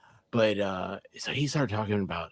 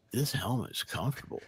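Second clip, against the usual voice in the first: deadpan quote; 9 dB quieter than usual. Retold or imitated. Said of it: "Just out of the blue".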